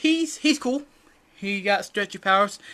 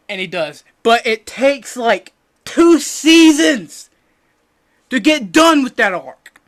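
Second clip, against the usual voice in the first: weeb host voice; 3 semitones higher, 8 dB louder than usual. Acted. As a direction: pump it up like an over-eager anime fan. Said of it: "I don't know why I'm talking like this".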